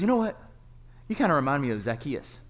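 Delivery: big booming voice, rising loud; booming professor. Retold or imitated. Professor telling a student he's like Zacchaeus, booming. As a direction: boom it out like a big coach.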